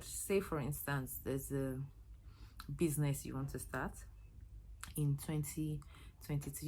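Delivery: winded, pausing between phrases for air; breathless, catching breath mid-sentence. Real, not acted. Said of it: "I'm catching my breath".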